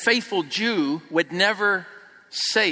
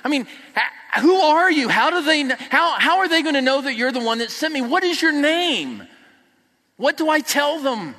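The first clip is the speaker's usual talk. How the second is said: 1 anxious Moses; 5 semitones higher than usual. Retold or imitated. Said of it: "Moses says to God".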